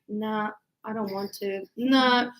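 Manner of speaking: put-on low, sulky teenage refusal; imitated moody daughter. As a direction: refuse listlessly, as a sulking daughter.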